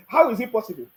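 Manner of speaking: laughing through the question. Shown as a demonstration. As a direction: laugh it out in disbelief.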